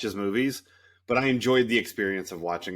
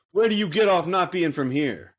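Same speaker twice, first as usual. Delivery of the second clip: mock indignation; 7 semitones higher, 5 dB louder than usual. Mock outraged American viewer.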